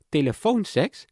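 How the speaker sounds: asking as if she can't believe it; incredulous question. Acted. She checks the word, unsure.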